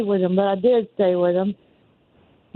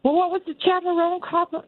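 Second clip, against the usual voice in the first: ordinary delivery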